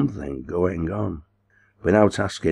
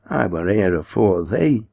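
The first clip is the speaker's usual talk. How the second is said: laughing; 3 semitones higher than usual. Acted. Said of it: "laughed Martin".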